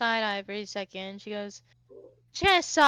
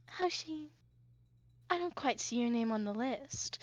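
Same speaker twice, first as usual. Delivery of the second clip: dry stonewalling; 8 dB quieter than usual. Acted. Sarah stonewalls Hoshi at the door.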